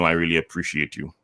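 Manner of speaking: flat, emotionless, rushed; hollow and hurried; without emotion. Shown as a demonstration. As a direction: say it like you don't mean it. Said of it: "doesn't really have that emotion".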